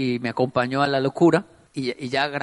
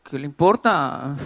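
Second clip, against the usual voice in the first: defiant retort; 2 semitones lower than usual. Retold or imitated. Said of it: "mirándolo como".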